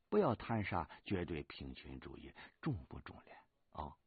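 put-on squad leader's rural accent. Squad leader scolds soldier for mimicking him, subdued Henan accent. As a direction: chide in a toned-down Henan country accent. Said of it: "俺让你不要学俺说话".

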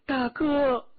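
高而响亮地喊大哥; 带着激动颤声高喊亲人; 颤声呼叫. A narrator's reading. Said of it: "颤声叫道". (颤声高呼)

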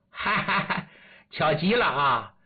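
mildly gleeful greeting with a laugh; pleased. Acted. Villain greets the man he was hunting, pleased. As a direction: open with a light, delighted ha-ha-ha. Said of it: "高兴走来说".

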